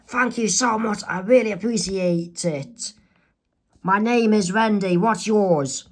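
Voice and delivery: put-on mildly joyful grateful girl. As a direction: thank the driver with light cheer. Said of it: "says joyfully".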